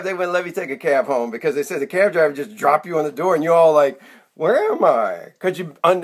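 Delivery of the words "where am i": slow, drawn-out woozy confusion; heavily medicated. Acted. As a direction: act groggy and lost after anesthesia. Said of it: "heavily medicated".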